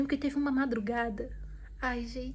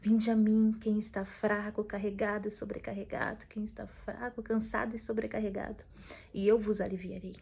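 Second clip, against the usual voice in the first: 1 solemn scripture reading. Acted.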